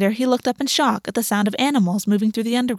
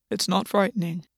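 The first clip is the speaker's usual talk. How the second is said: soft, calm and reassuring, quieter; 5 dB quieter than usual. A narrator's reading. Gwen calming a frightened August, soft and steady. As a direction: soothe him gently. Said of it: "Gwen said calmly".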